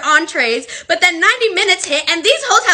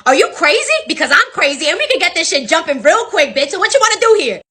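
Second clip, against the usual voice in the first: fast heated challenge; fed-up server calling them out; confrontational. Retold or imitated. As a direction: square up to the table. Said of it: "I was completely over it".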